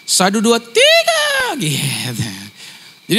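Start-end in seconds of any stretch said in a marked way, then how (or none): 0.0-1.5 leaps very high and drawn out, a mock Ambon tone; high Ambon intonation. Shown as a demonstration. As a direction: sing the count up high, slow and stretched. (nada tinggi khas Ambon yang dilebih-lebihkan)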